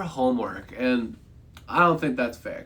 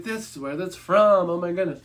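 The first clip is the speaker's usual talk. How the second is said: higher-pitched mock astonishment; retold amazed realization; 5 semitones higher than usual. Streamer retelling spotting the song in the movie, amazed. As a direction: relive the moment it clicks, pitch raised.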